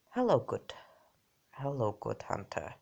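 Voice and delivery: doll's greeting in a shaky-attempt Russian accent. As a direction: try a Russian accent, not quite landing it. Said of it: "I cannot do a Russian accent".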